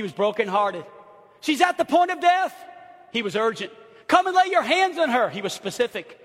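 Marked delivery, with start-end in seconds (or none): 1.4-2.5 high, loud urgent quote; urgent pleading. Acted. Quotes pleading father in text. 4.1-5.3 high, loud specific request; urgent pleading. Acted. Quotes pleading father in text.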